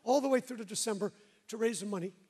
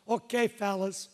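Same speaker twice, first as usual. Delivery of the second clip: imitating Benny; 4 dB louder, slower than usual. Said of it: "That's my best interpretation".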